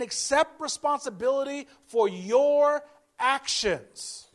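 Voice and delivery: slow, emphatic pulpit exhortation; preacher pressing the point, word by word; preaching. Acted. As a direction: drive it home to the congregation, slowly.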